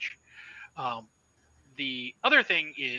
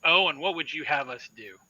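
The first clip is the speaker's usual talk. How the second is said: bristling; 9 dB louder than usual. Acted. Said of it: "He kind of bristles at that".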